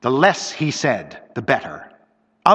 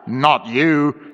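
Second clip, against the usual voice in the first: rough. Acted. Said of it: "she said roughly".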